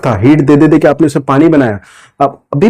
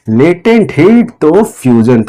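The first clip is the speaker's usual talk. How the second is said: each word drawn out slowly for the class; slow drilled term; much slower than usual. Shown as a demonstration. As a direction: spell it out slowly so students can repeat. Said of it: "क्या है ये?". (शब्दों को धीरे-धीरे खींचकर)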